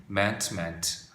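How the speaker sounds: "meant" with a short e, as MENT; changed vowel. Shown as a demonstration. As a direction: say "meant" to rhyme with "tent", not like "mean". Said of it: "발음이 바뀝니다".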